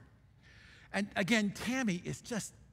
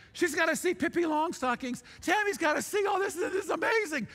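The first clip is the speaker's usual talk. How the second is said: excited; 7 semitones higher than usual. Retold or imitated. Excited retold thought, shout.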